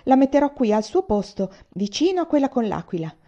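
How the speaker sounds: put-on snatch at it like a child; old general demanding the medal back, eager; eager old man. Old man grabbing his medal.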